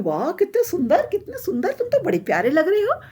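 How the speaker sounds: high, swooping gushes of wonder; delighted admiration. Acted. Surrounding trees admire the golden little tree, delighted. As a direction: gush as if dazzled by something beautiful.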